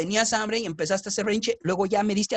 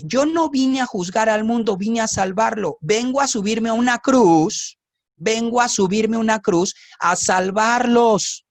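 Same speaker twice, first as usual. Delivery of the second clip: a louder preaching proclamation, slowing at the end; proclaiming Christ; 6 dB louder than usual. Acted. Preacher voicing Christ to the church, louder proclamation. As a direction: declare it from the pulpit.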